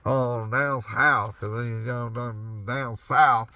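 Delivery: slow southern drawl on down south; southern accent. Shown as a demonstration. Trucker rambling in his cab, in a lazy southern accent. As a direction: stretch it out like a Southern storyteller. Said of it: "I got a southern accent going on right now".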